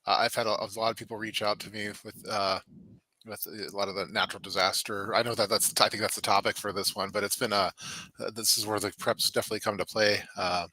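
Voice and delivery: muffled, distant mic sound; like talking down a tube; through a tube. Real, not acted. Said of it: "sounds like I'm talking into a tube from the next room".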